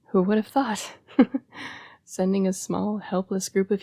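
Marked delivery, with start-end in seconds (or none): 1.2-1.8 short, breath-only laugh; a brief voiceless scoff. Acted. Bitter remark on a bad idea.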